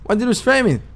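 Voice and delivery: very high panicked outrage. Acted. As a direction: shriek in disbelief at arrest. Being arrested in game.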